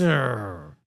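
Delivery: low engine wind-down noise; falling mimicked engine growl; imitated motorbike stopping. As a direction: mimic a toy motorbike dying away. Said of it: "he stops and he goes".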